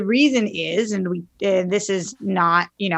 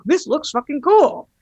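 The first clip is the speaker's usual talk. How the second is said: mock excitement; 8 semitones higher, 4 dB louder than usual. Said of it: "it's like".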